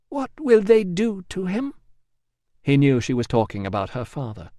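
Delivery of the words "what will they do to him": Emilia resigned. Acted. Emilia voiced.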